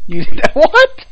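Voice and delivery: high, loud incredulous question; shocked disbelief. Real, not acted. Friend hearing a Briton dislikes tea, shocked disbelief. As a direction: blurt it out, real astonishment.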